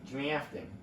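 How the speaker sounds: "Drafting" in a light mock Southern drawl; southern accent. Shown as a demonstration. Mimicking the announcer, "Drafting" in a light Southern accent. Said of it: "fun to say with the southern accent".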